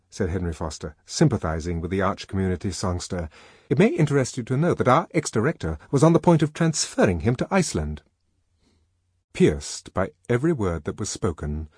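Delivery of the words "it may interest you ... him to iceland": confiding man. Acted. Henry voiced.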